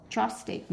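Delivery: "chopstick" stressed on CHOP, the first syllable. Shown as a demonstration. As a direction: put the beat of "chopstick" on CHOP. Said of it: "nhấn âm một".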